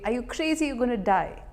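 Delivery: a touch of incredulous reproach; inner critic. Acted. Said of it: "this critic will say".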